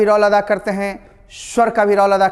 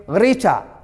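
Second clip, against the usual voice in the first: गरीठा with the र hit hard and drawn out; stressed r sound; much slower than usual. Shown as a demonstration. Teacher shows class the strong r at the start. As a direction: lean on the र in गरीठा, slowly. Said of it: "रॉ पर में जोर डालो".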